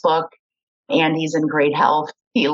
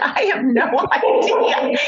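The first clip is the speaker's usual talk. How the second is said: laughing mid-sentence, a bit slower; 8 semitones higher, slower than usual. Real, not acted. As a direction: laugh through the admission, caught out. Asked her blood type.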